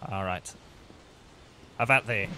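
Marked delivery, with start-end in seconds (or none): 1.8-2.3 stagey fake archaic declaiming. Archaic challenge to enemy.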